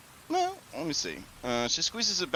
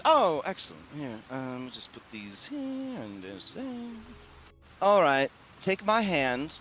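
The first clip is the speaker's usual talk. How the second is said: hostess voice; 4 semitones higher than usual. Acted. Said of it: "and she says".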